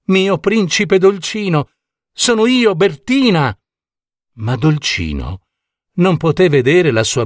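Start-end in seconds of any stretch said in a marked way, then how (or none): 0.1-3.6 higher-pitched princess calling to her prince. A narrator's reading. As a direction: call out to your beloved, pitched up. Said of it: "lo chiamò". (richiamo accorato, voce più acuta)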